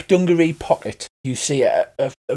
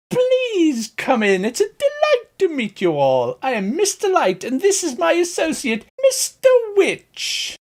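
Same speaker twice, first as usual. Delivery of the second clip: flamboyant Dean Pelton. Acted. Flamboyant elf host welcomes the party, high and theatrical. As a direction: gush over the guests like a camp showman. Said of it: "Mister Light as played by Dean Pelton".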